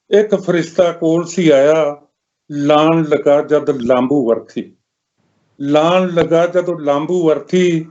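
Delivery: measured lament in verse, pausing between lines; mournful poem recitation. Acted. Poet telling of a mother's lonely funeral, mournful recitation.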